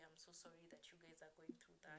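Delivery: soft retold commiseration; imitating a supportive friend, hushed; validating sympathy. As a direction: offer quiet, understanding sympathy. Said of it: "validating my experience".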